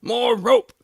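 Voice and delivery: loud call from a pit. A narrator's reading. Heavy man calling up from the grave for rope. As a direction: shout up from the hole. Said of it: "I heard him say".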